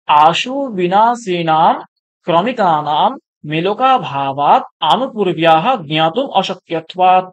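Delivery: slow, measured chanting of a Sanskrit verse; Sanskrit recitation. Shown as a demonstration. Teacher quoting the commentary to students, slow Sanskrit recitation. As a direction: recite the quote slowly, syllable by syllable. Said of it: "টিকাতে একটা কথা বলা হয়েছে".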